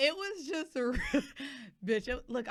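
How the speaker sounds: talking through laughter. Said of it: "I'm laughing right now".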